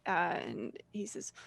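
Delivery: normal talking voice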